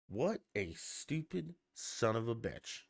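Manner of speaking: slow, drawn-out imitated insult; unhurried, deliberate sarcastic put-down; sarcastic aside. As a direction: quote the sarcastic insult slowly, word by word. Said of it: "and this is sarcastically".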